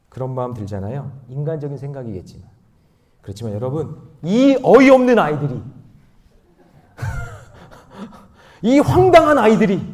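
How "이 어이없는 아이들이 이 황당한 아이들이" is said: loud, high preaching cry; raised-voice sermon emphasis; emphatic proclamation. Real, not acted. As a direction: ring it out to the congregation. Preacher emphatically proclaims about children.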